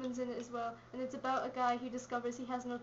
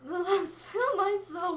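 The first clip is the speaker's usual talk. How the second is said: laughing; 5 semitones higher, 7 dB louder, slower than usual. Real, not acted. Giggling while answering.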